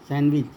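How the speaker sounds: "सैंडविच" with no d sound, as "san-vich"; silent D. Shown as a demonstration. Teacher correcting sandwich for students, D left out. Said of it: "डी नहीं बोलते".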